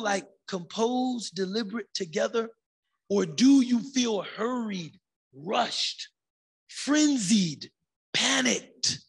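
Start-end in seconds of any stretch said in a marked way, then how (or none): 3.1-9.0 louder, pressing, building to panicked; mock frenzy. Shown as a demonstration. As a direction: act out the rush as the list grows. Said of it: "that feeling of being frenzied".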